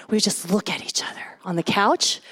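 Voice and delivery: whisper. Real, not acted. Intimate memory of courting.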